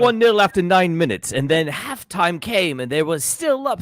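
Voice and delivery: shaky attempt at British English; British accent. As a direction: play the British pundit, stretching the words. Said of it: "Nailed it".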